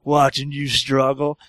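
put-on low, slow sneering drunk. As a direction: taunt him slowly and low. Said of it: "He's like".

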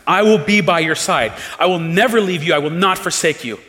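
a touch of a fervent loyal disciple; Peter's bold vow. Retold or imitated. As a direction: swear it boldly, like Peter. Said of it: "He's the one who said".

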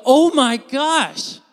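loud, high, drawn-out mock wail; hammed-up anguished outcry; acted wailing grief. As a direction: cry out as if overcome by grief. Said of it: "this is like a".

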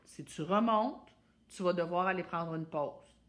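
steady, firm, no anger; firm calm voice. Shown as a demonstration. Mother setting the couch rule, firm and calm. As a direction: lay down the rule calmly. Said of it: "je fais".

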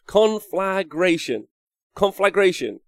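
Conflagration in high, separated syllables, no U; careful corrected pronunciation. Shown as a demonstration. Streamer correcting own mistake, Conflagration pronounced carefully without a U. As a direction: sound out Conflagration carefully, "flag" straight into "ration". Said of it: "There's no U".

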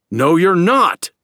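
slow, high, loud hysterical cry; hysterical shout. A narrator's reading. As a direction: scream it out in panic. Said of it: "shouted the Earthman hysterically".

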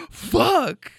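high laugh into slow laughing words. Real, not acted. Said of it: "he just kept on going".

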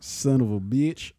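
put-on slow, botched Massachusetts accent; bad Massachusetts accent. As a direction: try a Boston accent and miss. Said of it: "like, a Massachusetts accent".

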